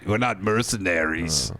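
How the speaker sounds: weak Schwarzenegger. Retold or imitated. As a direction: do a deliberately bad Arnold. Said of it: "that's a pretty weak Schwarzenegger".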